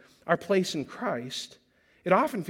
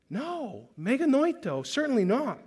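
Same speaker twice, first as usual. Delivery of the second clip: strong denial; 6 semitones higher than usual. Acted. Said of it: "this is strong language".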